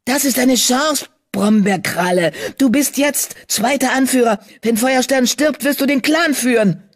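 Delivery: urgent whispered temptation; eager urging. A narrator's reading. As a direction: tempt him with the prize. Tempting his half-brother eagerly.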